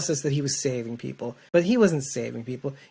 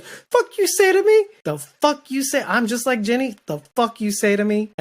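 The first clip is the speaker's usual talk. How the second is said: mock outrage; 7 semitones higher, 4 dB louder than usual. Host re-enacting Morgan's comeback to Sherry with mock outrage. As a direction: ham up an offended snap, laughing at it. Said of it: "I was like".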